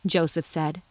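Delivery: usual speaking voice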